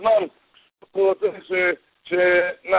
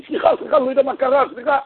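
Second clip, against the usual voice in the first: feigned apology; 7 semitones higher, faster than usual. Retold or imitated. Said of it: "אז אמר לו".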